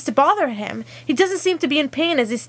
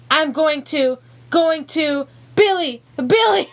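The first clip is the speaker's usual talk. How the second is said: retold scream; 4 semitones higher than usual. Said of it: "Steve screams".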